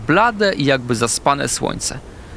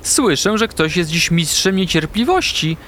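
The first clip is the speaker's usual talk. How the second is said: warm owl; 5 semitones higher than usual. Acted. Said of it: "z ciepłym uśmiechem".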